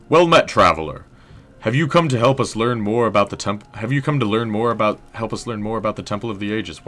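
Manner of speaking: drifting British-tinged historian, tripping over the greeting; stoic historian, flubbed take. Acted. Historian greeting a traveler at the temple, stoic but fumbling. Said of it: "Maybe he's stoic".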